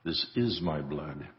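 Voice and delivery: solemn, measured prayer voice; liturgical prayer. Acted. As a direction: recite it reverently at the altar. Priest recites Eucharistic prayer.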